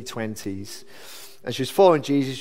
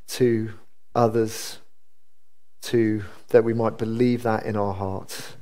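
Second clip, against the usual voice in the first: measured, low-key prayer; 3 semitones lower than usual. Real, not acted. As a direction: pray aloud evenly with pauses between phrases. Leads a closing prayer.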